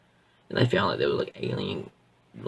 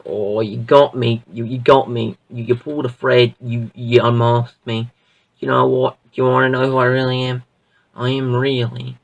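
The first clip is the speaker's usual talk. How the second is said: gloating villain reveal; 8 dB louder than usual. Retold or imitated. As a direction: savour the unmasking, hamming it up. Villain reveals himself on plane.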